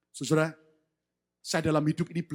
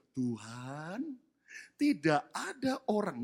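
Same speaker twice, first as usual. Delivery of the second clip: weak, pitiful voice; 8 dB quieter, slower than usual. Acted. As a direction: whimper it like a sick man. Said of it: "Saya yakin ngomongnya enggak begini".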